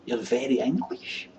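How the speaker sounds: drawn-out "English" with a rising end; slow, mocking "English" that lifts at the end; mock labelling.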